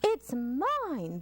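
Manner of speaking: light chirpy bird claim; tweeting bird. Acted. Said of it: "the bird tweetered".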